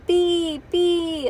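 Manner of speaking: put-on high, loud toddler call; toddler hollering. A narrator's reading. Toddler hollering for Bean, high and loud. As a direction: holler like a toddler wanting someone. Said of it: "hollered Kalia".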